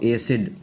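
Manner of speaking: एसिड said with a long "ay" first vowel; wrong "ay" vowel. Shown as a demonstration. Teacher showing students the common misreading of acid, mispronounced "ay-sid". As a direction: say एसिड as "ay-sid", the Urdu-spelling way. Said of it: "ये लफ्ज़ एसिड नहीं है".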